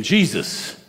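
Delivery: acting out a mild scolding, pitch climbing at the end; mock rebuke of a close friend. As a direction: tell him off, lightly dramatized. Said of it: "he began to rebuke him".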